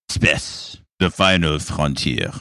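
slow, mock French accent; hammed-up French Picard; light French-accented Picard. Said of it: "speak with a French accent".

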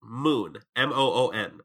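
blocked nose spelling it out; stuffy nose. Real, not acted. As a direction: spell it out through a cold. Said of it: "I can't say mom".

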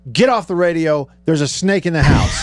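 urgent call through a door; mock shout. Wife bursting into studio, mock urgent shout. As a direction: bark it from the doorway. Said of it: "Door flings open".

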